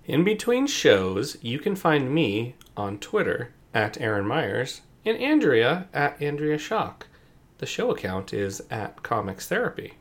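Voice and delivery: booming hype-man intro; announcer voice. Pretend. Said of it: "like, announcer voice?".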